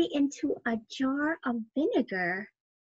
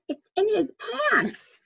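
father's voice; 8 semitones higher than usual. Acted. Father's line voiced in story.

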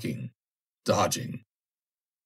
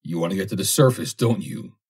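grim. Acted. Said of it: "said Ross grimly".

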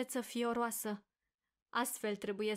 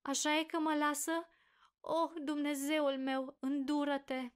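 frightened pleading; 5 semitones higher than usual. A narrator's reading. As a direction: beg God in rising panic. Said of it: "strigă ea cu glas spăriat". (rugăminte disperată, speriată)

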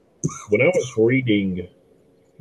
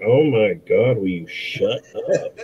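slow exasperated plea, laughing at the end; mock exasperation; slower than usual. Viewer begging the actor to stop, mock exasperated. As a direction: drag out the weary complaint. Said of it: "I was just like".

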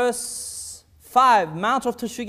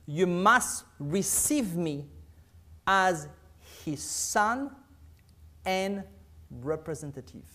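slow scripture reading; slower than usual. Shown as a demonstration. Preacher reading a quote to his listeners, slow and weighty. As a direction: read slowly, weighing each word. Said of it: "Listen to this".

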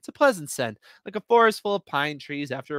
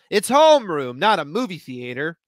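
imagined shout; 2 semitones higher, 7 dB louder than usual. Pretend. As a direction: snap at the rowdy class. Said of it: "I shout, except I don't".

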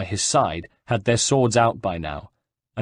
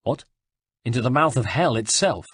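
incredulous; 3 semitones higher than usual. Acted. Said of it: "looked at him incredulously".

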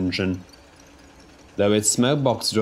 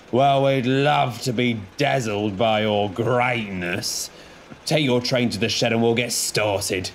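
teasing. Acted. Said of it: "teased Harry".

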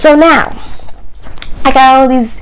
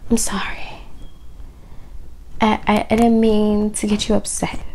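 timid apology; 9 dB quieter than usual. Retold or imitated. Wife apologising to husband.

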